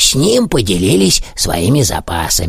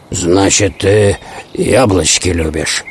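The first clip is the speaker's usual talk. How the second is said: low wolf voice; lightly voiced wolf, pitched down; sly wolf; 4 semitones lower than usual. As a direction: question the prey with understated menace. Wolf toys with the hare.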